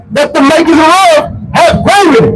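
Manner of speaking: scripture proclamation. Real, not acted. Reader delivers verse for preacher to expound, proclaiming scripture. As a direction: call out each phrase of scripture. Reads scripture aloud to street crowd.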